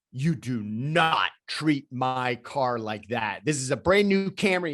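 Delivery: mock-indignant rant about a new Camry; retold tirade. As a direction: imitate the driver scolding you over his car. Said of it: "He just goes on this tirade".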